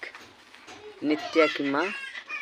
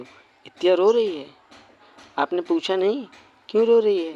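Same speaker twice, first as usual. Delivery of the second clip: louder, rising surprise, lightly acted; mildly shocked father; 3 semitones higher, 6 dB louder than usual. Father hears from mother that his daughter is crying, mildly shocked. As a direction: question it in startled concern, voice lifting.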